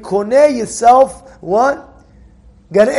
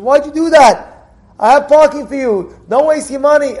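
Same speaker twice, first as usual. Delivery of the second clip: emphatic scolding; 3 semitones higher, 5 dB louder than usual. Retold or imitated. Wealthy host scolding his guest over the meter, emphatic. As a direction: scold him for wasting money on a meter.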